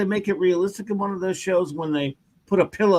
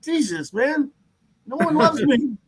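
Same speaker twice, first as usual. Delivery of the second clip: stressed boss. Acted. Acting out the stressed, whining boss.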